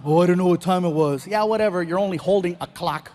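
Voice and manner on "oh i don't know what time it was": playing dumb. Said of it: "he'll play dumb".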